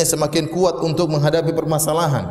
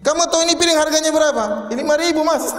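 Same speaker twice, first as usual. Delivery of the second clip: much higher-pitched mock scolding; scolding husband; 13 semitones higher than usual. Stingy husband scolding his wife over a broken plate, mock angry. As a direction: act out a petty husband's indignation. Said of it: "dia marah-marah sama istrinya".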